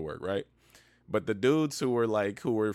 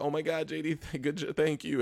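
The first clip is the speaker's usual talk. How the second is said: mock freak-out, much higher, quieter, slower; 6 semitones higher, 3 dB quieter than usual. Speaker retells a woman thanking jd; imitating someone freaking out. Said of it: "She starts freaking out like".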